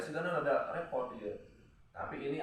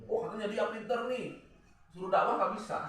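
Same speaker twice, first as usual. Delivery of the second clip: mock gossip; 8 semitones higher than usual. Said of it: "tapi nggak pinter ngomong percuma".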